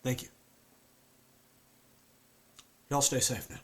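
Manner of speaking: a haunted Southern man; southern accent. Acted. Performs Luke with southern accent.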